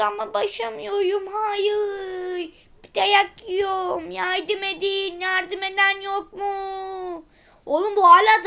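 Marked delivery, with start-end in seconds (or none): 1.3-7.2 slow, whimpering call for help; hammed-up tearful begging; slow mock crying plea. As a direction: cry out for help, drawn out. Robot begs for help crying.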